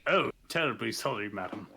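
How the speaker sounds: quick, fussy posh apology; fast, flustered apology to the lady; flustered noble apology. Acted. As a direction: blurt an embarrassed courtly sorry. Character apologizes in noble manner.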